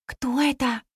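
ordinary delivery

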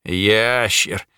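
the name repeated in a sly demon voice; demon mocking. Demon teases the mage about his name, sly smirk. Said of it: "улыбнулась тварь".

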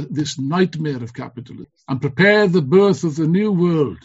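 rousing political speech, building to slogans; rally the comrades with fervor; fiery revolutionary speech. Acted.

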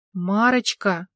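helpless, at a loss, calling her name; a lost husband's helpless call; bewildered call; bewildered plea. Acted. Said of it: "растерянно развёл руками".

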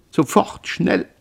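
high-pitched, panicky demand; frantic urging. Acted. Mother presses son to act at once, frantically.

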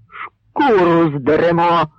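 slow, shouted threat with a cry in it. Acted. Dovhoshyii yelling a threat at the Poles, slow and fierce. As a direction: yell it as a vow. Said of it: "крикнув Довгошиїй".

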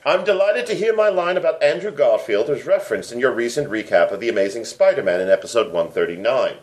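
reading a listener's letter in a hammed-up British accent. Podcast host reads British listener's letter aloud, mock British accent. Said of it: "try saying the word fellas in my accent".

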